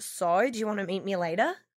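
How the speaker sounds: mock Australian accent, rising question-like lilt. Demonstrating accents that sound like questions, doing an Australian accent. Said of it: "Or Australian".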